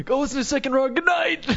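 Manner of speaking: excited sign-off. Retold or imitated. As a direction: belt out a giddy farewell. Death row man's cheerful plug.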